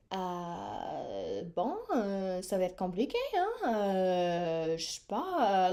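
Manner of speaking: lightly voiced unhelpful clerk; mock French clerk. Airport assistant refusing to help with lost luggage, mock reluctant. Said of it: "And she was like".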